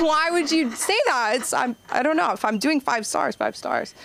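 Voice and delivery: high, offended protest; mock indignant. Comic telling Uber why she's insulted, high mock indignation. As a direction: plead your case as a five-star rider. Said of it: "And I was like".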